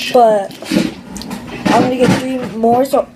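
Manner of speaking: hiccuping mid-sentence; words broken by hiccups. Real, not acted. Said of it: "sorry, I'm hiccuping".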